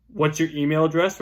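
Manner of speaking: direct, self-assured question; confident asking. Shown as a demonstration. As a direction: ask for the email like it's expected. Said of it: "it states confidence".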